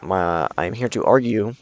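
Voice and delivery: tripping over the words; stuttering. Real, not acted. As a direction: stumble and restart. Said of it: "I'm stuttering".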